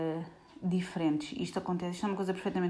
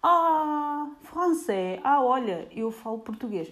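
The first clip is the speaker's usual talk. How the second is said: mock-cheerful reply; 6 semitones higher, 4 dB louder, slower than usual. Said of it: "E eu".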